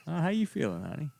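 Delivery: put-on teasing a girlfriend across the apartment in a drawling movie-star voice; Matthew McConaughey impression. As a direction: coax a girlfriend with a lazy Texas movie-star charm. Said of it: "good Matthew McConaughey impression".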